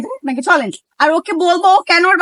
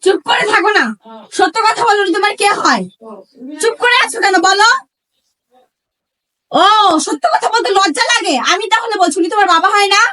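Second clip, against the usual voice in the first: insistent, accusing questioning; indignant, mildly raised demand; angry confrontation; 2 semitones higher than usual. Acted. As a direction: press hard for the truth. Wife confronting her lying husband.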